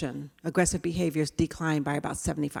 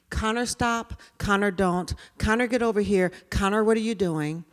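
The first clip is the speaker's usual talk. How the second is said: scolding teacher; 3 semitones higher, 3 dB louder than usual. Retold or imitated. Teacher scolding labelled child.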